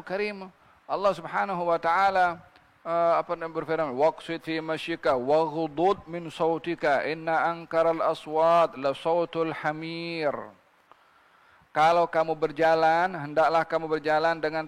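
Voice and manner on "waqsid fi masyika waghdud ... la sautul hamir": slow, measured Quranic recitation. Acted. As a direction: recite the verse deliberately, drawing out the long vowels.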